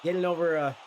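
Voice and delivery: congested, stuffy nasal voice. Real, not acted. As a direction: speak through a blocked nose. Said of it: "you can hear it in my nasally ass voice".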